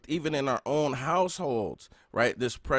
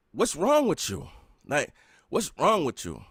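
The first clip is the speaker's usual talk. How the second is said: bewildered dad; 3 semitones higher than usual. Retold or imitated. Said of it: "and he just asked me".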